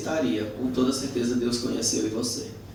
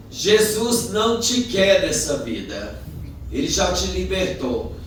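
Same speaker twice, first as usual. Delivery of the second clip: raised, drawn-out calling voice; shouting from afar; 5 semitones higher than usual. Retold or imitated. Drunk warning a churchgoer across the road, shouting. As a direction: call each phrase out across a road. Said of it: "O bêbado gritou do outro lado".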